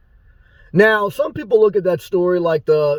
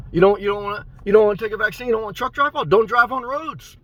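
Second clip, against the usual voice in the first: higher-pitched mocking challenge; rising, sarcastic ribbing; sarcastic taunt; 4 semitones higher, faster than usual. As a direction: needle the protesters with mock sympathy. Mocking protesters in sarcastic address.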